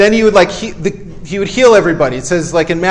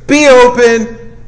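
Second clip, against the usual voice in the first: slow, firm command, a bit louder; 3 semitones higher, 3 dB louder, slower than usual. Retold or imitated. Preacher repeating Jesus' healing word to the congregation, slow firm command.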